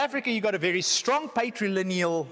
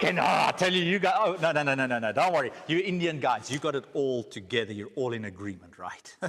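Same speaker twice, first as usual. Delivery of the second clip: facetious; 6 semitones lower than usual. Acted. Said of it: "that is facetious".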